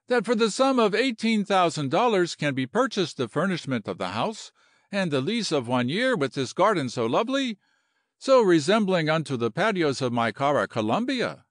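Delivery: a hint of flowery Latin officer; lightly voiced courtly general. General asks the lady about buying the house, lightly enchanted. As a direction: muse over it with mild admiration.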